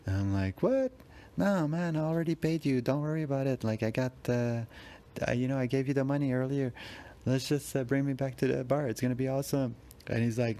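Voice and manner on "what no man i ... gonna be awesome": high-pitched, baffled pleading; startled, talk him out of it; squeaky disbelieving objection; confused protest. Retold or imitated. Mugger demands wallet, confused protest.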